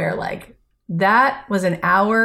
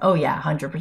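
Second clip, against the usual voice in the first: dry, jokey, mock sarcastic tone; 4 semitones lower than usual. Retelling a husband's joking reply while driving: imitating a sarcastic reply. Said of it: "he responds with a sarcastic".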